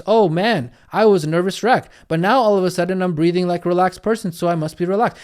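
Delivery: a touch of relieved realization; voicing the brain. Shown as a demonstration. Coach voicing the brain's thought, mildly lively. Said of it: "the tonality makes a massive difference".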